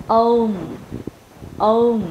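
"Home" with a full, rounded O closing into M. Shown as a demonstration. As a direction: open deep on the O of "Home", then close the lips. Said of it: "Mình phải mở miệng sâu hơn". ("Home" mở miệng sâu ở âm O rồi khép môi)

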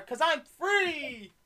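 drawn out, joyful cheer; excited. Real, not acted. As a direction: stretch out free gleefully. Celebrating being out of school.

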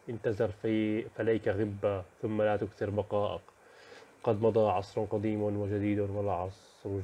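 measured, even poem reading; poem recitation. Acted. Teacher reading the poem of the unwelcome guest to students, measured recitation. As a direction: recite the verses evenly, often drawing out the words.

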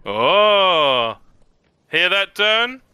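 out of breath. Acted. Dwarf soldier winded from drill, calling out breathlessly. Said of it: "slightly out of breath from the".

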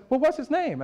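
lightly voiced older lady caught off guard; phone call from an old church lady, amazed; church lady, surprised.

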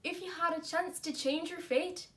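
put-on a movie line in a light Scottish accent, rising to loud at the end. Showing off her Scottish accent to her friend with a movie quote. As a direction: play the Scottish princess, then belt the last line. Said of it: "This is my Scottish accent".

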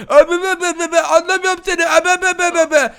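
babbling like a madman; loud nonsense babble, playing crazy; wild unhinged ranting. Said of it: "Deli taklidi yapacağım".

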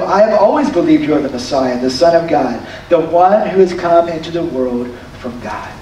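low-pitched confession of faith; settled, sincere declaration of belief; earnest affirmation. Retold or imitated. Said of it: "her response is one of affirmation".

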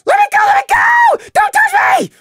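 shrill, very high, loud squeal; high-pitched outraged shriek. Acted. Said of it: "Prey squeaked in high-pitched outrage".

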